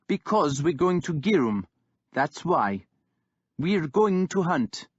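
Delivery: put-on young king holding firm; defiant young king. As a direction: stand your ground, unmoved by the insult. Guthred gives orders.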